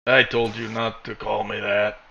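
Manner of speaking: a hint of robot, slow and even; slow, level, lightly robotic reply. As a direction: measure it out evenly like a machine. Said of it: "He sounds like a robot".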